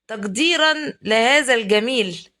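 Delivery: slow, solemn classical Arabic, تقديرا with full -an ending; تقديرا لهذا الجميل said slowly in lofty fusha; mock formal Arabic. Shown as a demonstration. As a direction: play it grand, like a formal speech. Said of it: "انا عايزه، عايزه اسكت قليلا".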